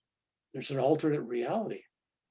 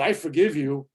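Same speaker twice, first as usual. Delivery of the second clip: louder, showy I forgive you; 6 dB louder than usual. Shown as a demonstration. Showing forgiveness said out loud to someone, louder. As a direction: announce I forgive you so they hear it. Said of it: "when you're telling people out loud".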